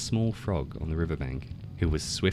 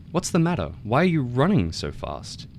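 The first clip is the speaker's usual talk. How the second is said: fox voice; 6 semitones higher than usual. A narrator's reading. Fox asks startled tiger.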